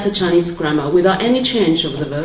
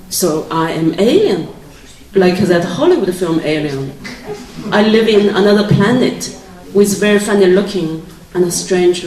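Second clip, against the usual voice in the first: reading from her novel. Acted. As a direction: read the passage to the audience, unhurried. Reads aloud from her novel.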